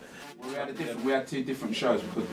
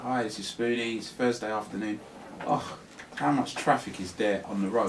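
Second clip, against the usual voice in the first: lively presenter; 2 semitones higher than usual. Shown as a demonstration. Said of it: "You're gonna be like".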